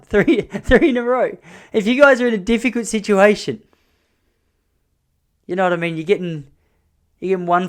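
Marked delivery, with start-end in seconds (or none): 0.0-1.4 giggling through the words, slower; laughing at own pun. Real, not acted. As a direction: crack up at your own joke.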